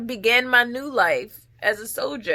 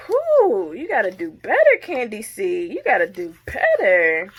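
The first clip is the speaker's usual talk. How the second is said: breathless self-scolding. Real, not acted. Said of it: "I'm out of breath".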